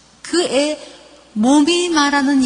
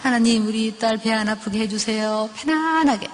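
gentle coaxing mother. Shown as a demonstration. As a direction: coax a sick child to open up. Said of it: "한번 이렇게 하는 거야".

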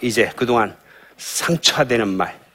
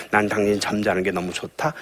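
tender praise; 2 semitones lower, 5 dB quieter than usual. Shown as a demonstration. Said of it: "이런 말을 좀 해줘야 돼요".

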